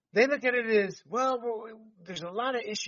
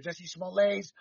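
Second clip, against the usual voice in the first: mock French accent; 2 semitones higher, slower than usual. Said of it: "throw the French accent in there".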